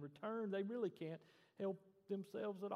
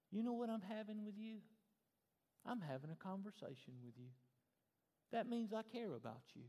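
gentle kindly talk; 4 semitones higher, 4 dB quieter than usual. Acted. Voicing kind talk to a child.

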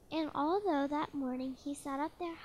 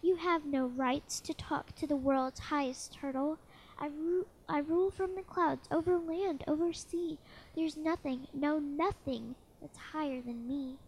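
angry royal rant; 3 dB louder than usual. Acted. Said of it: "howled the mighty King Yertle".

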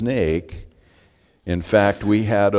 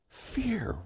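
Fear whispered, much higher and softer; 13 semitones higher, 11 dB quieter than usual. Shown as a demonstration. Sermon topic word said twice.

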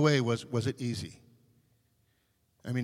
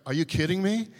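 mock exasperated outburst, higher and louder; retold losing it; 6 semitones higher, 5 dB louder than usual. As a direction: imitate an impatient customer blowing up. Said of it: "she was getting louder and louder".

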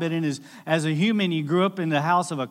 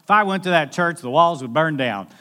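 louder, hammed-up self-mocking sinner; mock sinner joke; 8 dB louder than usual. Someone jokes the church walls would burn, loud and hammed-up. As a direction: ham up the worst-sinner line. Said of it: "somebody said".

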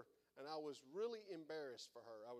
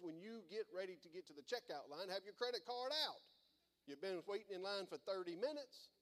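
aggravated comment in line; 3 semitones higher than usual. Retold or imitated. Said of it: "We get a little aggravated".

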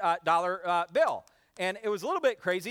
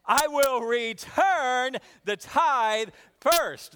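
louder, slower rousing recital; more energy; 4 semitones higher, 5 dB louder, much slower than usual. Shown as a demonstration. Pastor urging a livelier repeat, slow and loud. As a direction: push them to say it with gusto. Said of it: "Let's try it again".

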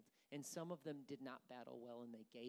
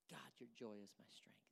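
soft unvoiced whisper of a prayer; whispering the words of faith; 3 semitones lower, 7 dB quieter than usual. Shown as a demonstration.

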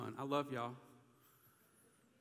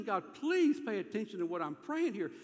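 louder, higher acted plea; pleading; 4 semitones higher, 5 dB louder than usual. David praying for God's attention, pleading. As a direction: press God earnestly to pay attention. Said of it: "he's just pleading".

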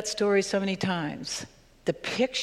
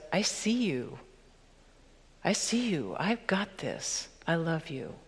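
tender voice of God; 5 dB quieter than usual. Acted. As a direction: speak it gently, like holding someone close. God's voice, tender reassurance.

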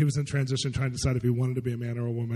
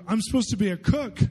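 high-pitched mimicked girl's discovery; excited, imitated girl's voice; retold excited revelation; 9 semitones higher than usual. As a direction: voice her sudden realization up high.

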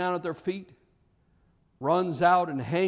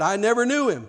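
denial; 4 semitones higher, 5 dB louder, faster than usual. Retold or imitated. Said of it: "Peter said".

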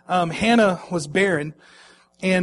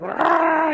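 put-on short high fussy baby squawk; baby fussing cry imitated; 9 semitones higher than usual. Dad imitating his baby's fussy cry. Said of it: "he's just like".

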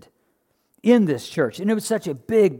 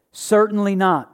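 "Certainly not" said firmly and slowly; emphatic; 3 semitones higher than usual. Acted. Preacher stressing Paul's answer to the church, emphatic. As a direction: land "Certainly not" like an exclamation point. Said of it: "with a great big exclamation point".

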